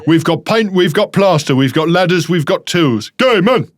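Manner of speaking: mock trade-advert patter; chirpy commercial list with a punchline; radio advert jingle. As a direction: reel it off like a cheesy radio ad. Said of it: "And at the end it goes".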